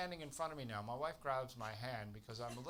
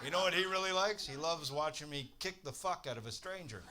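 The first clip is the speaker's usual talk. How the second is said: louder, sharp mock retort; angry comeback; 4 semitones higher, 3 dB louder than usual. To the advice-giving mum, a loud sarcastic comeback. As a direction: fire it back at the smug mom.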